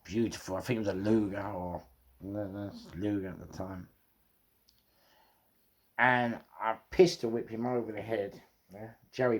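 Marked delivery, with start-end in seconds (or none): none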